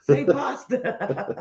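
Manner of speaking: slow, laughing "say pasta"; teasing a Canadian to say pasta, laughing. Retold or imitated. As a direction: goad him playfully. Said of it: "that's where I'd have said".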